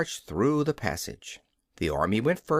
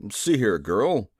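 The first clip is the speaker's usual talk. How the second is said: slow, lower kingly voice, eager; Nome King, eager; 3 semitones lower, 3 dB louder, slower than usual. A narrator's reading. King urging Dorothy to hand over the belt, eager. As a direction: lean in and bargain slowly. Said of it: "proposed the king eagerly".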